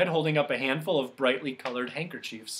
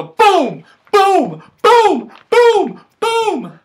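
big loud booms, climbing higher; each boom louder and higher; booming drum sounds; 16 dB louder, much slower than usual. Acted.

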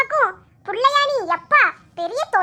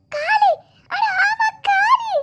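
காலு pitched higher with a rising eureka tone, then a mock whimper; light up as the leg excuse hits you; sudden bright idea; 9 semitones higher, much slower than usual. Girl hitting on the sore-leg excuse, gleeful. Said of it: "காலு வலின்னு சொல்லிட்டு".

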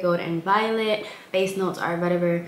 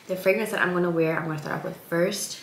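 congested; faster than usual. Real, not acted. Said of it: "I sound congested".

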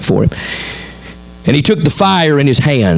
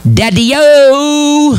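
put-on little girl voice; 14 semitones higher than usual. Daughter pulls dad from phone, high playful squeal. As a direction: play the little daughter demanding attention. Daughter right in his face.

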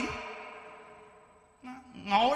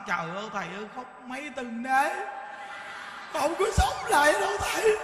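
widow's lament; 2 semitones higher than usual. Retold or imitated. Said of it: "Bà nói".

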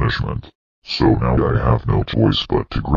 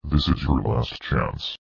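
softer, measured final warning; a hushed threat to the user; quiet warning; 9 dB quieter than usual. Acted.

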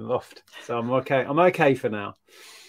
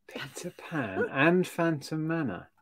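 whisper; 8 dB quieter than usual. Real, not acted. Awed recap of bad luck.

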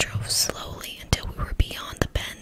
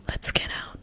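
hushed whisper at his ear. Acted. Tom whispers to Nick passing close, whispered. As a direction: lean in and whisper it. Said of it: "he whispered".

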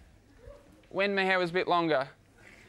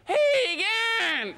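clipped bogan greeting; 13 semitones higher than usual. Retold or imitated. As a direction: squeeze it into two quick syllables. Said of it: "people go".

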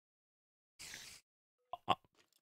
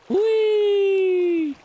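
sudden high loud shriek "húj"; a sharp frightened squeal; startled yelp; 6 dB louder than usual. Real, not acted. Gamer startled by something in the game, high shriek.

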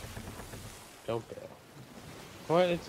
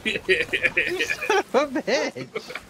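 high furious yell, slowly at first; yelling across the room; 11 semitones higher, slower than usual. Real, not acted. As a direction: howl at the friend who stole it. Friend shot his firework.

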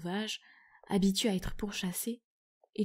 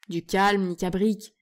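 calling out; 6 dB louder than usual. Acted. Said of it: "s'écria Trompillon".

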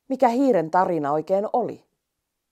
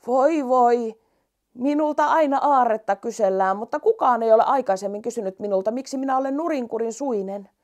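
storybook rainbow voice; 6 semitones higher than usual. Acted. Rainbow answering the little mouse, lightly voiced and puzzled. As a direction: sigh it out as the kindly rainbow.

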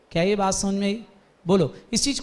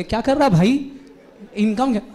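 scolding; 3 dB louder than usual. Acted. Teacher scolds Deepak in acted quarrel.

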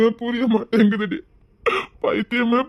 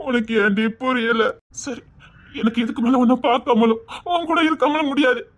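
choked, pleading lament to an absent love; anguished lover's plea. Acted. Man alone pleading to Thenmozhi, tearful and desperate. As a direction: beg her to understand, voice near tears.

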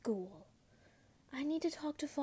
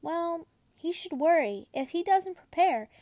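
1 stern warning; 6 semitones higher, 6 dB louder than usual. A narrator's reading. Stern father warns.

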